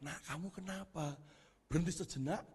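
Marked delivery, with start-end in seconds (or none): 0.0-1.1 mother asking. Retold or imitated. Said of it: "Ditanyain sama mamanya".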